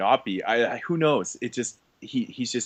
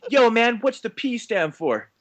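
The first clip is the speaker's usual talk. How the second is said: high, slow mock rapper voice; hammed-up tough rapper; gangster voice; 11 semitones higher, slower than usual. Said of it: "Stray Bullet and Postmaster P".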